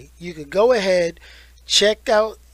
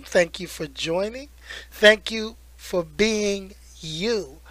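warm; 4 dB quieter, slower than usual. Real, not acted. Tender thanks to viewers.

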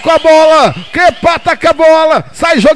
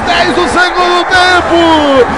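explosive goal commentary. Acted.

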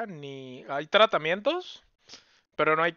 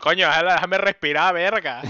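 la Tierra harta; 6 dB louder than usual. Pretend. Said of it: "la Tierra diciéndonos".

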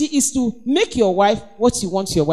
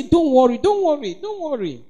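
soothing, fading. Shown as a demonstration. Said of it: "I say".

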